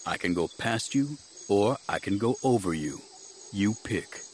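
understated, measured ultimatum; quietly threatening Jedi. Acted. Jedi giving guard an ultimatum, quietly threatening. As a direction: offer the choice softly, without heat.

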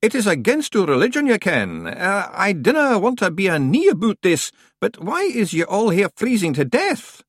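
a rustic Scot at the door; Scottish-ish stranger. A narrator's reading. Stranger Scots.

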